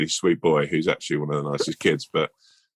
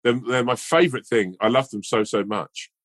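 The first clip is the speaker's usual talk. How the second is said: a lightly voiced gushing girl, pitched higher; a girl thrilled to find her favourite bar; excited little girl; 7 semitones higher than usual. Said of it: "the little girl goes".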